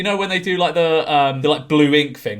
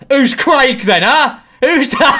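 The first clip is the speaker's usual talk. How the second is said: high, louder mocking challenge; hammed-up suspicious partner; mock jealous partner; 9 semitones higher, 7 dB louder, slower than usual.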